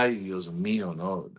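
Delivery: soft, sinking dismay, fading out; deflated sigh. Retold or imitated. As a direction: let the words drop away, defeated. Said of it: "más desanimado".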